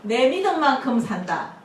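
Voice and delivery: slow, firm declaration. Shown as a demonstration. Pastor leading the congregation, slow firm declaration. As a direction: proclaim it slowly. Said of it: "자기 가슴을 치면서 말해보자".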